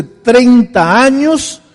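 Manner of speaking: slow, high, loud proclamation; a former drunk telling the pastor of his sobriety, slow and loud; triumphant testimony. Retold or imitated. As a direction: stretch every word out as a victory shout. Triumphant testimony of five sober days.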